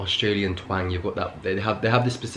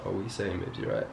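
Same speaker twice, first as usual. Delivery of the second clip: sus chat-up; 9 dB quieter than usual. Shown as a demonstration. Man demonstrating how he greets a girl, sus and soft. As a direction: drop the volume, sidle in smoothly. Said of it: "you're a bit more sus".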